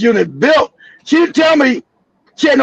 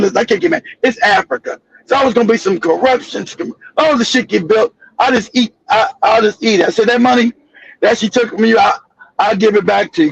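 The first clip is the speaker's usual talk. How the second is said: weary resigned; 3 semitones lower than usual. Retold or imitated. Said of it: "I'm exhausted".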